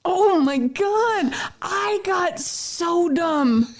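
embarrassed laughing. Real, not acted.

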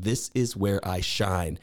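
put-on slow, low, weak Boston accent; a bad Boston accent impression. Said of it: "I don't do a good Boston accent".

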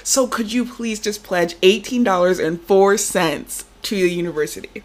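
lightly voiced, polite telemarketer; a fundraising caller working on a reluctant parent; role-played fundraiser. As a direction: stay sweet and keep pushing the pitch. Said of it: "Nice role play".

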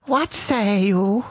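medieval voice. Acted. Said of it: "let you do your medieval voice".

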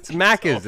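"Maccas" ending in an open A, no R; Australian pronunciation. Shown as a demonstration. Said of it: "It's an A".

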